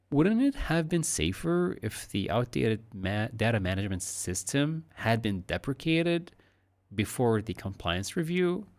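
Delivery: a touch of annoyance under a curious question; mildly annoyed question. Shown as a demonstration. Teacher models a mildly annoyed, suggestive question. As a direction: ask it, but hint that you know the answer. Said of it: "slightly annoyed and also, like, asking 'cause I'm curious, but also suggesting".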